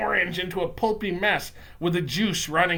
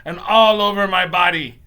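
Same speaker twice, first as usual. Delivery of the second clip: agonized narration; 3 semitones higher, 10 dB louder than usual. A narrator's reading. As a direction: build the agony to a loud, high peak. Burning spreads through whole body.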